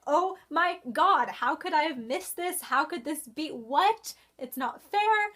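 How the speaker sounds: loud, high frustrated outcry at the plot twist; mock frustrated scream. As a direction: rail at the book as if it cheated you. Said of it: "I honestly screamed in frustration and anger".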